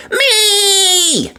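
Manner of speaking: high eager me; little girl volunteering; eager shout. A narrator's reading. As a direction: call out like a keen child. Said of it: "she shouted".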